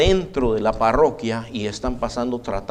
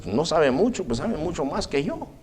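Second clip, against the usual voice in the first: inner thought; 7 dB quieter than usual. Retold or imitated. Priest thinking inside himself.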